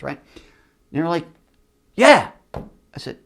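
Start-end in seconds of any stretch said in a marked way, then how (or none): 1.9-2.3 loud high indignant yeah; mock exec yeah. Executives insisting the cicadas are a machine, loud mock yeah. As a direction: bark it like a smug executive. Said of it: "good impressions".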